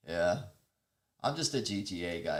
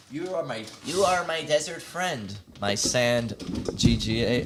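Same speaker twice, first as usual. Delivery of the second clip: loud declaration; 6 dB louder than usual. Pretend. Calling friend desert friend.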